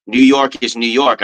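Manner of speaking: slow, drawn-out New York accent on New York. Shown as a demonstration. Replaying his own video clip with the New York accent. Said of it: "I had it in the one".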